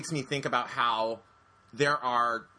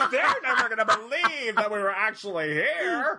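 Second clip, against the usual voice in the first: excited tourist; 8 semitones higher, 4 dB louder than usual. Retold or imitated.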